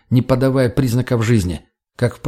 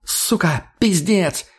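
higher-pitched nervous swearing; 6 semitones higher, much slower than usual. A narrator's reading. Girl swears while looking around for an axe, nervous. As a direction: curse under rising nerves. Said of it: "нервно добавила девушка".

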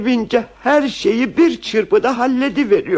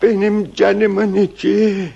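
slow, subdued and doting; tender endearment; 3 semitones lower than usual. Acted. Husband to wife after ears are uncovered, tender.

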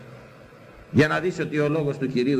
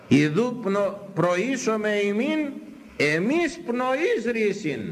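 raised, slow, solemn recitation; scripture reading; 6 semitones higher, much slower than usual. Real, not acted. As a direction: draw out the holy verse, pitched up. Reads the scripture verse aloud.

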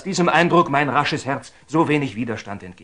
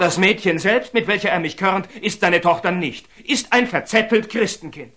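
indignant accusation; 5 semitones higher, 3 dB louder than usual. Acted. Templar denounces Nathan to Saladin.

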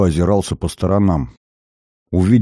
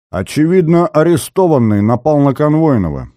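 clipped, high, louder rapped-out report; crisp report; 7 semitones higher, 3 dB louder than usual. A narrator's reading. Flustered officer reporting to superiors, crisp. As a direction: snap it out like a soldier. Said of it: "тут же отчеканил".

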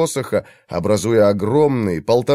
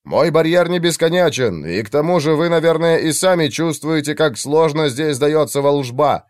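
raised strained voice; 4 semitones higher than usual. Acted. Mage strains holding barrier.

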